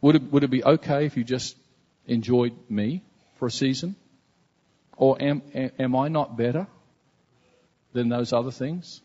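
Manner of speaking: understated tender voice of God; tender invitation. Retold or imitated. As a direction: invite them gently, like a loving father. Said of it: "it was like God said".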